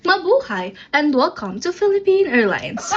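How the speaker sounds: lilting airline welcome; flight attendant greeting. Pretend. Flight attendant welcoming Philippine Airlines passengers, lilting announcement. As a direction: greet the cabin in announcement style.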